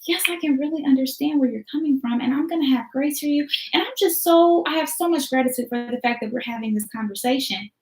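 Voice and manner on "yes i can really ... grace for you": gentle understanding. Retold or imitated. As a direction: offer grace, unruffled. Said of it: "You're just like".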